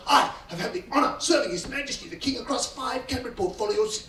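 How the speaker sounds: a hint of an indignant pompous member; blustering outburst. A lightly voiced pompous MP lecturing the waiter. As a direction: puff up and bluster, mildly. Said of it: "it just bursts out of him".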